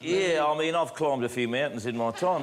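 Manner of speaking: a shaky attempt at a New Zealand accent; struggling amateur New Zealand accent; Kiwi accent. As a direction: play a modest New Zealand mountaineer in a wobbly Kiwi accent. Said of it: "You've gotta do a Kiwi accent".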